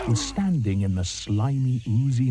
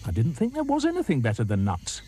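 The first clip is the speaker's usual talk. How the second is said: higher, puzzled monkey; 4 semitones higher than usual. Acted. Monkey tells the crocodile nuts are best, lightly high. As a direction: wonder aloud, lightly high. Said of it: "said Mugglewump".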